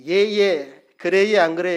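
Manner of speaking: put-on chirpy Gyeongsang ye-ye, like a kindly older sister; friendly Gyeongsang speech. Preacher imitating Gyeongsang sisters, sweet friendly Gyeongsang lilt. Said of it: "이렇게 말을 사근사근하게 하면서".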